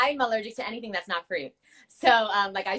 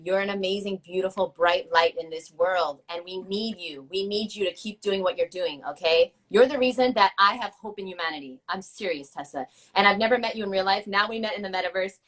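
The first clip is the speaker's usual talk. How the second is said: sincere goodbye speech; 2 semitones lower than usual. Acted. The speaker's heartfelt goodbye speech to guest Tessa, sincere. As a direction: speak from the heart to a friend. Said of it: "my goodbye speech".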